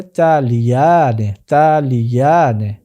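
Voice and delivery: তালিয়ানে slowly, taa-li-yaa-ne with long aa held; slow, deliberate তালিয়ানে; pronunciation demo. Shown as a demonstration. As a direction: model তালিয়ানে for the class, drawn out. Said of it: "Wahed Tasnia কি হবে".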